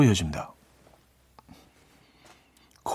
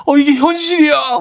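much higher, louder, exaggerated disbelief; overdone joy; 12 semitones higher, 5 dB louder than usual. Shown as a demonstration. New father showing his wife his joy, hammed-up. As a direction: act a hundred times more moved than you feel. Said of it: "백 배, 천 배 오버하셔야 됩니다".

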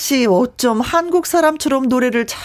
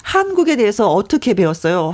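spelled out more slowly for her; slower, clearer repeat; 3 semitones lower than usual. Real, not acted. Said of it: "네?". (천천히 또박또박 다시 묻기)

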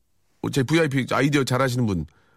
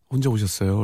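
a gently lowered, welcoming question; warm, caring question; 3 semitones lower than usual. Acted. Hotel manager asking a guest if they came alone, warm. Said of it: "따뜻하게".

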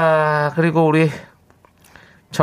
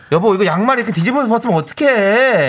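nagging wife; 6 semitones higher than usual. Acted.

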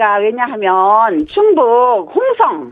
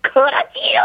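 laughing. Real, not acted. Caller laughing hard.

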